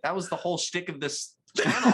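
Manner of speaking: laughing through it. Retold or imitated. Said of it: "And I'm like".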